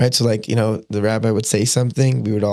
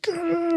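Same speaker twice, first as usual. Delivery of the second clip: mock frustrated shriek; 6 dB quieter than usual. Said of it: "I would start by screaming at him".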